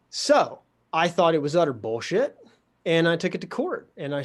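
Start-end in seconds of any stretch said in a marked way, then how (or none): 0.1-2.4 whispered aside. Real, not acted. Speaker telling a podcast host, in a whisper. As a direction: drop to a whisper for the swear. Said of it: "whispered aside".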